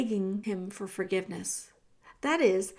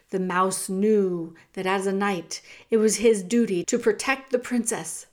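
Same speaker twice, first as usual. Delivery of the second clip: ordinary delivery, nothing marked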